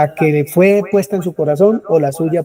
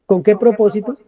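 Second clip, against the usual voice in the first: normal talking voice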